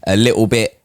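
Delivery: slow, drawn-out teasing; mock correction. Real, not acted. Friend mocking the coined word, slow. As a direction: stretch the words out to tease.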